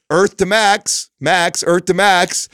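sing-song calling. Retold or imitated. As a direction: drag it out like calling someone back to earth. Dad trying to reach sulking son.

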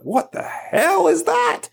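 a stunned "what on earth" in a high, put-on voice; baffled disbelief. Baffled journalist meets Bitcoin.

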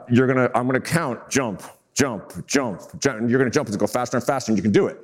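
lightly voiced creepy clown, low and soft. Clown instructing the blindfolded volunteer, lightly creepy voice. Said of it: "super creepy voice".

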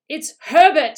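high, loud frantic cry; screamed. A narrator's reading. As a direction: scream the news out. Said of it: "she screamed".

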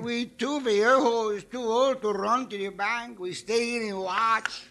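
put-on disguised old man voice. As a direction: stay in character as a frail old man. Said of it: "Pancho talk like this".

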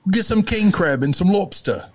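high, playful put-on Maine accent; mock Maine accent. Mimicking Maine accent, laughing.

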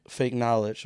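lost voice, rough and strained; hoarse voice. Real, not acted. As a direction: talk through a hoarse throat. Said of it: "Like, you lost your voice".

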